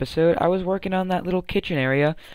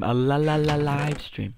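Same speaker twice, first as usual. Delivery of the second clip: stuttered hype. Pretend. Announcing tomorrow's live stream, stuttered hype. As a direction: hype it like a DJ echo.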